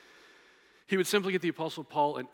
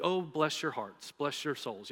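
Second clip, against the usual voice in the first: insincere; slower than usual. Retold or imitated. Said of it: "that's what we say when we're being insincere".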